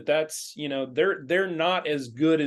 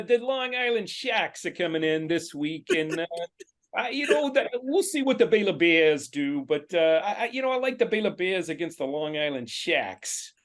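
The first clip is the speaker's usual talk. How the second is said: put-on New York accent. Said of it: "give me a little New York".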